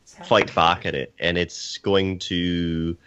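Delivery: slow, put-on Scottish accent; mock Scottish accent. Panelist answering about pirates, in a mock Scottish accent. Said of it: "I'm gonna talk in a Scottish accent".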